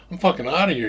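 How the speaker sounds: retold alarmed exit line, high and loud; indignant. Man retells bailing on friend, indignant.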